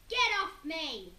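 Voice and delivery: loud, slow angry shout; Henry shouting at Peter to let go. A narrator's reading. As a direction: bellow at the clinging brother. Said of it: "shouted Henry".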